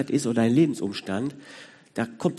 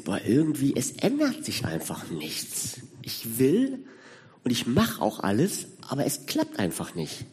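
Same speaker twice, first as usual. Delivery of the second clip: weary inner voice; 5 dB quieter than usual. Retold or imitated. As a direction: let it sink, like someone who has given up. Voicing a weary listener's thoughts.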